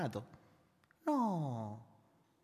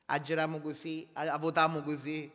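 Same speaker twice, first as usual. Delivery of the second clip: 1 Sicilian dialect. Retold or imitated. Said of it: "Scusate se lo dico in dialetto".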